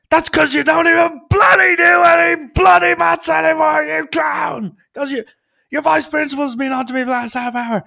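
high, loud, furious yelling; furious shout. Retold or imitated. Dad screaming at his son for skipping maths, furious yell. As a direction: blast him, raging at the top of your voice. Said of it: "Starts screaming at me".

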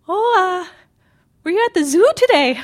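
high-pitched imitation of an adorable mom; adorable mother. Mom phoning after work about the zoo, high imitated voice. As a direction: play the curious mom, pitched well up. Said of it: "my really adorable, short, chubby Japanese mother".

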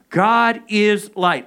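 God is light said slowly, each word weighed, stress on God; slow emphasis. Shown as a demonstration. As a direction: proclaim it word by word. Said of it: "Let's say that together".

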